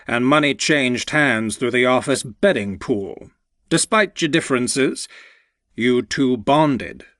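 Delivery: lightly voiced fond older mentor; a hint of a proud old boss, heartfelt; older man voice. Walter continues his speech.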